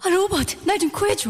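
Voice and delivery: dubbed movie voice. Acted. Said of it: "외화 더빙 목소리 됩니다".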